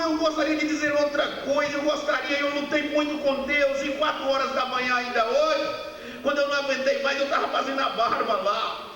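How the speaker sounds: mais aguda, falando rápido e sentido; pregação emocionada. Real, not acted. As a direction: confesse a luta com Deus com emoção. Pregador emocionado fala com Deus. (pregação emocionada)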